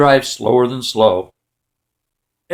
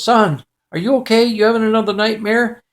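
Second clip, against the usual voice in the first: higher, lightly acted worried father; concerned dad; 6 semitones higher than usual. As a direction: check on the child with lifted voice. Dad checks on son again.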